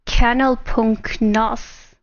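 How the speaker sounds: "Kanalpunkt nos" said slowly, word by word; puzzled echo of text-to-speech. Retold or imitated. Streamer puzzling over the German sound alert, slow puzzled echo. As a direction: sound out "Kanalpunkt nos" slowly, copying a machine's odd reading. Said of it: "Why does it say".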